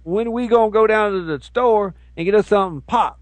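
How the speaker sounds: hammed-up uneducated teacher; mock ignorant teacher. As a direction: mangle the grammar on purpose. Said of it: "I'm gonna talk like that".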